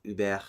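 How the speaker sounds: "über" said "oo-BEHR", with a full final vowel; stressed R syllable. Shown as a demonstration. Making the call on pronunciation, stress on the R syllable. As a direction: keep the ending of "über" full, without schwa. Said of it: "the stress will be on the R".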